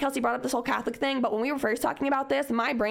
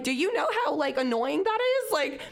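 high, snotty mock disgust; imitating her offended younger self, high and scornful; disgusted scoff; 6 semitones higher than usual. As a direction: sneer at their easygoing faith. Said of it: "in a way where I was like".

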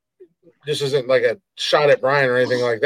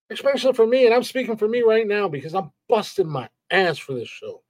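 real exasperated ranting, higher and higher; heated rant; 8 semitones higher than usual. Real, not acted. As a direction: voice climbing higher as the anger builds. Angry rant on his own show.

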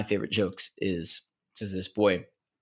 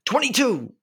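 a loud, high call across the lunchroom; called out number; 5 dB louder than usual. Acted. Camper standing up to call a joke number, loud and high. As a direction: shout the number up for the whole room.

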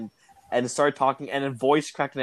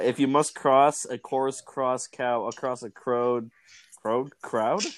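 slow careful; slower than usual. Shown as a demonstration. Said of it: "here it is".

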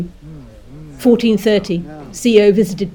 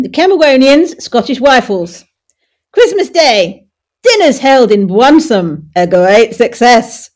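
Monty; 4 semitones higher, 6 dB louder than usual. Acted. Host reading war diary to amused co-host, as Monty. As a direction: declaim it as a hammed-up military impression. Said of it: "Is that the ghost of Monty Past?".

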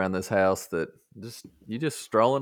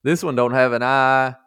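excited self-quote; 4 semitones higher, 4 dB louder than usual. Retold or imitated. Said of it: "I was like".

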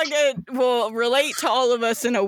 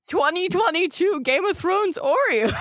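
incredulous; 5 semitones higher than usual. Real, not acted. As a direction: demand it in astonishment. Incredulous laughing question.

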